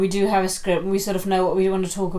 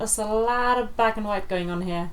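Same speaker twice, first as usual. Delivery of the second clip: mock suspicion; 4 dB quieter than usual. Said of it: "I'd be like".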